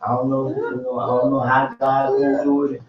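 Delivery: a hint of a whiny lament; mock helpless whine. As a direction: act out a helpless believer whining to God. Mimics helpless prayer.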